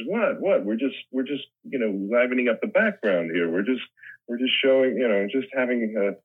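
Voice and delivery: playful, innocent protest pitched high; Goldblum impression. Retelling the set story, doing Goldblum's innocent protest. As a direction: play the mock-innocent actor caught goofing off. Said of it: "You sound like Goldblum".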